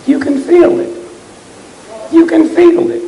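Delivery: a sudden high cry to the crowd; rousing cry. Real, not acted. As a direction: lift the crowd with it, twice.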